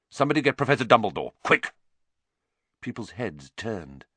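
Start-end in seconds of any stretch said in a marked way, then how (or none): 0.1-1.7 fast, urgent sharp order. Acted. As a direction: snap the command out quickly. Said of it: "in a suddenly sharp voice".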